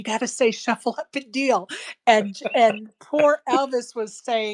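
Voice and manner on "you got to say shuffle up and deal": mock, put-on whisper. Retelling how someone prompted the dealer to say the line, imitating a whisper. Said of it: "like he was whispering to him".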